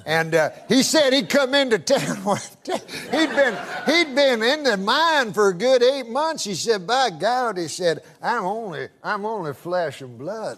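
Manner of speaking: lightly voiced country old-timer; hint of a Southern good old boy; good-old-boy storyteller. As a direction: spin it out as a folksy yarn. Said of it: "That's how he talks".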